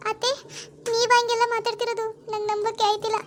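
high, plaintive disbelief; moved and close to crying; tearful. Acted. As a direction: answer weakly through tears. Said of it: "ಸುಮ್ನಿರವ, ಅಳ್ಬೇಡ".

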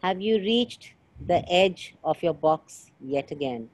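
slow, phrase-by-phrase question; deliberate repeat. Real, not acted. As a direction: spell the question out slowly for the listener. Repeats after listener says sorry.

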